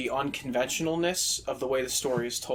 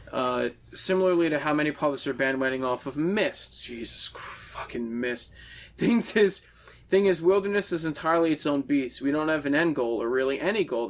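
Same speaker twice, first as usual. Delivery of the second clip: ranting game designer. Acted. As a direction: preach it like a smug nineties developer. Reads a game designer's ranting monologue.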